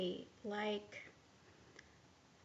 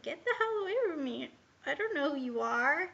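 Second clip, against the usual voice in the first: higher, fast, fed-up; angry dismissal; 3 semitones higher than usual. Retold or imitated. Telling the intruding voice to leave, angry and fast. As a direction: shove the voice away, quick and sharp. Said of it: "I was like".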